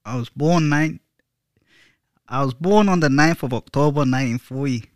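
badly faked Scottish-or-Irish accent; butchered accent. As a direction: attempt a Celtic accent and butcher it. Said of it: "I'm butchering the accent".

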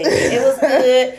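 drawn out slowly, laughing; slow drawn-out reply. Retold or imitated. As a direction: stretch it lazily with a laugh. Mocking a friend's phone chat.

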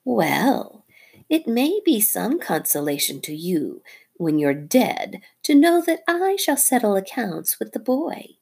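a hint of a cold snake voice, last words whispered; menacing snake. Nagina threatening Darzee's wife, lightly voiced snake.

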